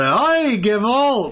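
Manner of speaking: high slow hammed-up Jewish accent; heavy Jewish accent. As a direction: ham up a Jewish grandpa. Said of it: "the heavy Jewish accent".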